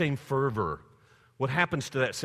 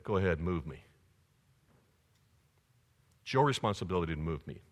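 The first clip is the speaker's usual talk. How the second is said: defiant challenge; 4 semitones lower than usual. Retold or imitated. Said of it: "look at the pastor and say".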